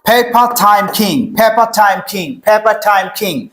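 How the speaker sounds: "Paper time king" slow and measured, puffed p, t, k; loud aspiration drill. Shown as a demonstration. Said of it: "একটু loudly চেষ্টা করব এটা".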